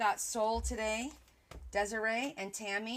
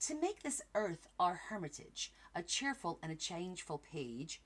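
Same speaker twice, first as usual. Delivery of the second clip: put-on slow, careful reading in a light British accent; gentle British poem reading; 2 semitones lower, slower than usual. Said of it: "reading a little British".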